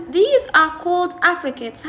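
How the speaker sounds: slow, careful read of these are called affricates; reading the textbook aloud. Shown as a demonstration. Teacher reading the textbook to students, slow and careful. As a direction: read the English line slowly for the class. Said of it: "هسه يقول".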